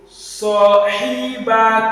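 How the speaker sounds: صاحبك read slowly, syllable by syllable; slow first reading. Shown as a demonstration. Teacher's first reading for the pupil, slow صاحبك. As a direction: take صاحبك slowly for a learner. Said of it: "reading it slowly for the first time".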